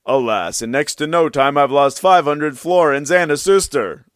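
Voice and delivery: a touch of self-pity in his complaint; Andreuccio's lament. A narrator's reading. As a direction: sigh it out as a wronged young man. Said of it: "and he thought".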